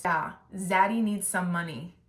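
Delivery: slow, put-on dopey voice for Zaddy; mocking his voice. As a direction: drag it out like a clueless guy asking for cash. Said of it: "And he goes".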